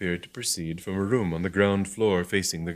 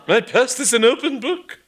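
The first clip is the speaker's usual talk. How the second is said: haughty; 8 dB louder than usual. Acted. Bishop haughty reply.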